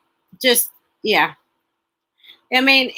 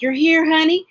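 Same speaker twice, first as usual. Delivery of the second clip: lightly voiced higher-pitched wife; a higher, mock-earnest wife's line; movie wife; 5 semitones higher than usual. Wife sending her husband off to help the girls, mock wifely voice.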